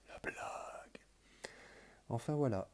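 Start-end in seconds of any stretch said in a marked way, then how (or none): 0.1-1.0 voiceless, hushed whisper; drawn-out whispered comment; whispered aside. Real, not acted. Whispered aside mocking own sign-off.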